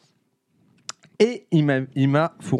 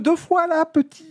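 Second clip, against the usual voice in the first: teasing; 12 semitones higher, slower than usual. Real, not acted. Teasing after a failed uncapping.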